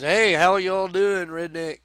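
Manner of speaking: mild Texan twang; Texan drawl. Retold or imitated. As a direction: toss off a friendly Texan greeting. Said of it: "You know, Texans".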